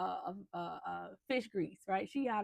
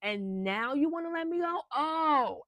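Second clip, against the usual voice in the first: indignant outburst; 4 semitones higher, 5 dB louder than usual. Retold or imitated. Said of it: "She was like".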